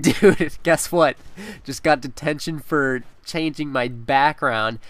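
grab your buddy's attention, then drop the punchline flat; excited to tell. Retold or imitated. Meeting his friend in the hallway, he blurts out the news, then delivers it deadpan.

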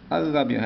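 الربيع said with no l, the r doubled; silent lam. Shown as a demonstration. Teacher proving the lam is not read, silent-lam demonstration. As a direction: hold the r of الربيع and drop the article's l. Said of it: "هذا اللام لا نقرأه".

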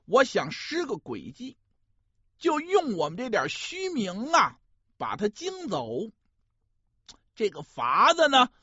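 lively pingshu storyteller voice; gravelly dramatic storyteller. A narrator's reading. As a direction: tell it like a dramatic folk storyteller.

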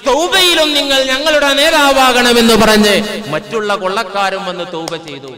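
sustained, ringing preacher's delivery; impassioned sermon storytelling. A narrator's reading. Preacher retelling a saint's farewell to his mother, impassioned. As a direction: preach the tale in a drawn, level chant.

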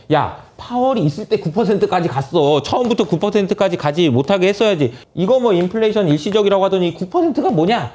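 indignant imitation of a detractor; mock criticism. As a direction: grumble accusingly, play-acted. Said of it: "이라고 비판하시겠지만".

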